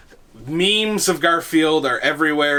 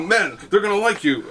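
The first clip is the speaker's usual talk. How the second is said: mock ad pitch; 6 semitones higher than usual. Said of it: "Johnny Dutch here with Power Pills".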